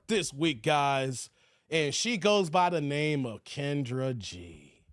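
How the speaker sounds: slow mock-grand introduction; show announcer. Host introducing the woman of the week, slow hype announcer.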